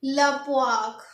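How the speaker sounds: लपवाक said as one French word, la poire; French pronunciation demo. Shown as a demonstration. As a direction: pronounce लपवाक carefully in French. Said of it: "क्या पढ़ेंगे?".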